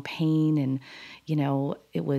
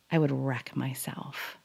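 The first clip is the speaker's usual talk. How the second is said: slow whisper; 3 semitones lower, 6 dB quieter than usual. Real, not acted. Grim admission.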